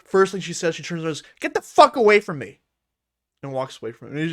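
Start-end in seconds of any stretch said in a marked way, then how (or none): 1.4-2.6 loud mock snap at Steve; imitated angry rebuff; retold brush-off yell. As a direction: bark it like she's shoving him off. Porn star rebuffing Steve, retold.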